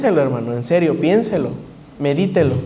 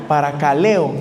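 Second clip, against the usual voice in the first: paracaleo with weight on the e; accent the e in paracaleo, next to last sound; stress on the E; 3 semitones lower than usual. Shown as a demonstration. Preacher spelling out the Greek word, stress on the e in paracaleo. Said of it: "acento en la E".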